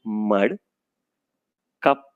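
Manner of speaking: teacher models short i words; word list read-aloud. Shown as a demonstration. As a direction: read each word clearly for the class. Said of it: "वापस मैं एक एक शब्द".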